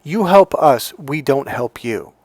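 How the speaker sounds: slow, lightly voiced, deliberate coldness; cold dismissive sister. Retelling the sister who told him he is a slave, said slow and cold. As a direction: spell out the rule slowly, unmoved.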